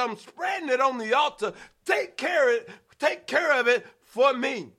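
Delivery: fast, shouted prayer at the altar; preaching at full force. Acted. Preacher acting out a prayer at the altar, shouting.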